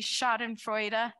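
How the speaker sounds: Schadenfreude said slowly with a rising end; slow Schadenfreude, tune lifting at the end; German word repeated. Shown as a demonstration. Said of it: "Can you put it up for us".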